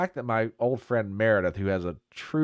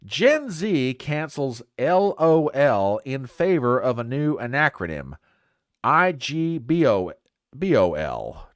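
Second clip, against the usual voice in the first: slow, emphatic headline read; 3 semitones higher, 4 dB louder, slower than usual. Acted. Host reads a story headline to the audience, emphatic headline read. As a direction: announce it deliberately, spelling out the letters.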